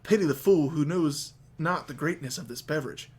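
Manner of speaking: a hint of Mister T bravado; lightly voiced Mister T with evil laugh. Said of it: "All right, Mister T, calm down".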